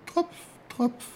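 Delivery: short high drips in imitation; crisp "Tropf" like falling drops; dripping sound. A narrator's reading. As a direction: imitate snow dripping, drop by drop.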